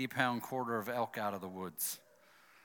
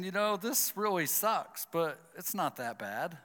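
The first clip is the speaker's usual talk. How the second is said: resigned; 4 semitones higher than usual. Retold or imitated. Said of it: "So I'm thinking".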